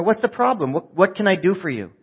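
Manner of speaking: high, mock-clueless helper; playing dumb. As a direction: offer help as if oblivious.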